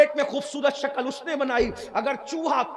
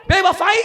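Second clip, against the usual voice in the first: بے وفائی repeated much louder, rising; louder echo of بے وفائی; stress on بے وفائی; 5 semitones higher, 10 dB louder, faster than usual. Shown as a demonstration. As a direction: hammer بے وفائی the second time. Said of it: "repeated louder".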